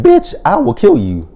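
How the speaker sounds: hammed-up high-pitched threat; high mock shriek. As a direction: screech it like a crazed threat. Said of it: "She said".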